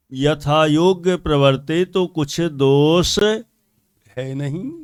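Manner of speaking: measured, drawn-out recitation; scripture reading. Real, not acted. Preacher reads the example to listeners, measured scripture reading. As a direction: read the text out deliberately, phrase by phrase.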